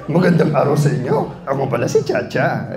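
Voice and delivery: a gentle little greeting, barely changed; Bubo Chacha voice. Shown as a demonstration. Voice actor demoing Chacha for the audience, lightly voiced. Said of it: "Tapos si Bubo Chacha".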